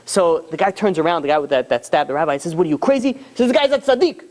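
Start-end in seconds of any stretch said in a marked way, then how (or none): 2.6-3.1 higher-pitched mock disbelief; retold outburst. Stabber turning on his partners, mock-aghast outburst. 3.5-4.2 high-pitched, mock-horrified exclamation; acted frantic outburst. Robber realizing he stabbed a holy man, acted frantic cry. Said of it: "literally going crazy".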